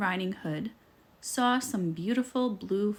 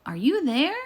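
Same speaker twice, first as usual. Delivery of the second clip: higher, louder calling question; 5 semitones higher, 5 dB louder than usual. Acted. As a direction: keep calling into the house. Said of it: "she called".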